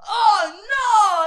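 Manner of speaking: loud, high startled Oh no; waiter's loud high cry of dismay; alarmed cry. Retold or imitated. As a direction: yelp it out in alarm. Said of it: "the other guy was like".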